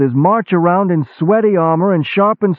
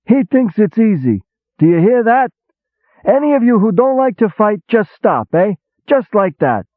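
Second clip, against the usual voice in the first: mocking to the men; 11 semitones higher than usual. A narrator's reading. Julie mocking the hero to his officers, high and scoffing. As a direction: play to the room, scoffing.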